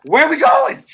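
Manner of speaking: high, loud excited yell; mock scream, voice shooting way up. Acting out an eager body part asking where they're headed, screaming. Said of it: "Dick, dick screaming".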